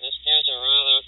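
vocoder-remade voice with nasal timbre; white nasal vocoder voice. Shown as a demonstration. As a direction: sound like a nasal, electronically remade voice. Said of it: "white nasal type of voice".

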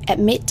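"admit" as a careful word-stress example, ad-MIT; second-syllable stress. Shown as a demonstration. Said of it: "âm thứ. Hai".

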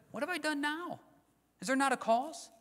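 David pushing back at his brother; indignant protest. Acted. David answering his angry brother.

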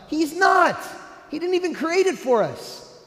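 refute it with force; emphatic rebuttal. Real, not acted. Preacher to congregation, shouted emphatic denial.

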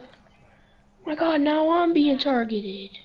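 slow, drawn-out alarmed cry. Real, not acted. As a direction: drag it out in dismay. Suddenly under fire in game.

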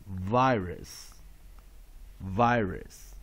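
"virus" with long I in stressed first syllable, weak second. Shown as a demonstration. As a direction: model "virus" carefully for students, stressing VI. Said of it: "Long vowel I".

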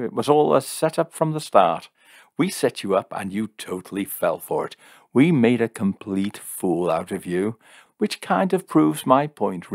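gloating. Acted. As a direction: crow over the fool you made. Jim gloats over his trick.

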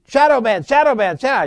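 quick, high excited calls; excited screaming. Retold or imitated. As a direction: cry it out in mock alarm, reacting as it happens. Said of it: "I just screaming and reacting".

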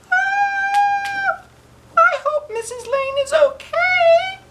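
very high tearful whimper; fretting girl close to tears; a worrier's high wail; worried. A narrator's reading. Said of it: "who worries about everything".

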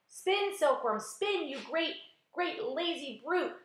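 high, urgent shout. A narrator's reading. Centipede exhorting the silkworm to spin, shouting.

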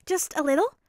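high, pleading ask. A narrator's reading. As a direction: beg sweetly for a little. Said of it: "Ashida requested".

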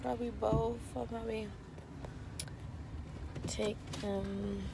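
hoarse, losing her voice; strained hoarse voice; raspy whisper. Real, not acted. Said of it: "Sorry, I'm losing my voice".

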